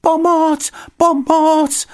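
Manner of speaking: high, loud shouted plea for help; cry for help. Acted. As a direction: yell for help in a panic. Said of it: "volal Paddington".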